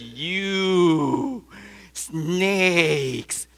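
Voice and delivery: a preacher's mock-furious rebuke; angry accusation. John the Baptist scolding the Pharisees, angrily accusing. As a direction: spit out the insult with contempt. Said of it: "He becomes agitated and animated".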